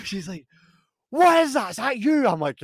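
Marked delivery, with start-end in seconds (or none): 1.1-2.3 high, loud "what is that?"; accusing surprise. Retold or imitated. Friend sniffing the car, high accusing question. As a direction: pitch it up in disbelief.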